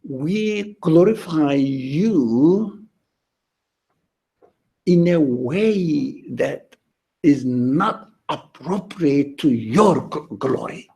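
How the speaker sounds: slow, deliberate reciting of a prayer; measured, solemn prayer read slowly; prayer recitation. Retold or imitated. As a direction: draw each word out like a quoted prayer. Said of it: "in the form of a prayer".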